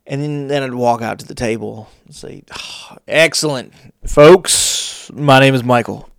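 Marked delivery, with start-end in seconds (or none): 2.5-6.1 put-on polite server greeting. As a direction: greet the table like an eager waiter. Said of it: "in a completely different voice than I'm speaking to you".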